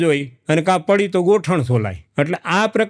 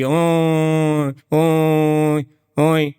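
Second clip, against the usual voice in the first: buffalo lowing; 2 semitones lower, much slower than usual. Retold or imitated. Buffalo lows from home at the well.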